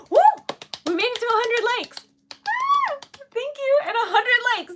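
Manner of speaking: high, loud, fast celebration; excited cheer. Real, not acted. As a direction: cheer the milestone, thrilled. Celebrating reaching hundred likes.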